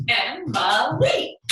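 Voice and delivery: "Emma Lee" very slowly in three beats, rising on "Lee"; one beat per syllable. Shown as a demonstration. Teacher leading three jumping jacks, "Emma Lee" slowly counted out by syllable. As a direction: chant "Emma Lee", stretching every syllable. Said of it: "jumping jacks to each syllable".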